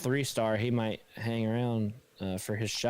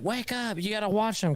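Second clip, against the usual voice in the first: mom voice; 8 semitones higher than usual. Retold or imitated. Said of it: "my mom's like".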